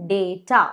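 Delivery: डेटा as "day-ta"; long "ay" in डेटा, two clear syllables; correct pronunciation. Shown as a demonstration. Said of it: "इसका pronunciation है". (डेटा को "डे-टा" बोलें)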